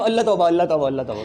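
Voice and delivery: low, fading mock-pious shock; mock horror. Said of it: "शहीमा उस दिन बता रही थी". (धीमी होती नाटकीय तौबा)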